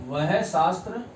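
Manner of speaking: word by word with long pauses; dictation pace. Shown as a demonstration. Teacher giving students the definition to copy, slow dictation.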